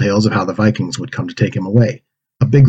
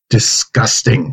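muttered disgust; much slower than usual. Acted. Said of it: "Bode muttered".

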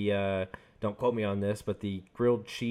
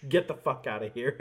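laughing. Retold or imitated. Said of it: "looks at him and goes".

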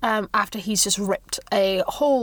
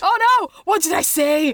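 suddenly appalled at herself; mock horror; 4 semitones higher than usual. Real, not acted.

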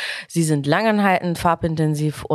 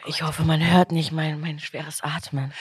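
breathing heavily while pregnant; heavy breathing under the words; 4 dB quieter than usual. Real, not acted. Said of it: "Ich atme so schwer".

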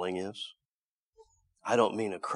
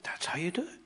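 whispered repeat; 10 semitones higher, faster than usual. Shown as a demonstration. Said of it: "this is how Jesus did it".

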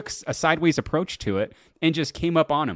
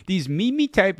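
laughing; 5 semitones higher than usual. Real, not acted. Laughing while stumbling over word.

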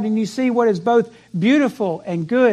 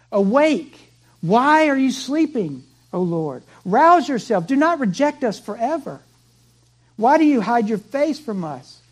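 impassioned lament; 2 semitones higher than usual. Retold or imitated. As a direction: plead with God in anguish. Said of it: "you cry out".

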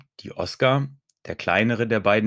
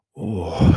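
breath-filled acted moan; 4 dB louder than usual. A narrator's reading. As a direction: moan it out on one long vowel. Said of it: "stöhnte sie".

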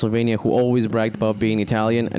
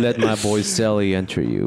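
low, playful come-on; cute and sexy; 5 semitones lower than usual. Pretend. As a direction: say it like a jokey seduction, lower in pitch. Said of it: "the way you said that was cute".

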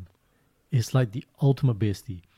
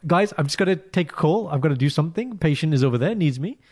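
hurried excuses; 4 semitones higher, 3 dB louder than usual. Retold or imitated. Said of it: "recovery mode".

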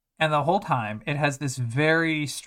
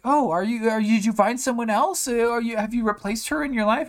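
put-on high, louder prying girl voice; mock nosy schoolgirl fishing for gossip; hammed-up high curious girl; gossiping classmate; 8 semitones higher, 3 dB louder than usual. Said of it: "the other girls in class are also like".

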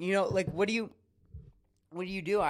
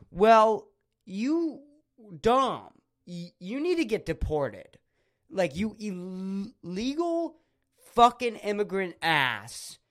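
a half-serious angry tirade, a bit louder and higher; mock furious rant; 4 semitones higher, 5 dB louder than usual. Telling off the spoiler friend with mock rage. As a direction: rant at the friend who spoiled the show in hammed-up fury.

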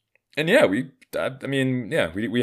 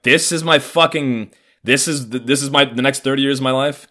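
appalled disbelief; 7 semitones higher, 6 dB louder than usual. Retold or imitated. Appalled reaction to yelling father.

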